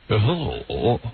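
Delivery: low, booming announcer hello; deep announcer voice. Retold or imitated. Mocking the show's deep-voiced announcer. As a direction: drop into a big radio-announcer boom. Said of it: "deep voice guy".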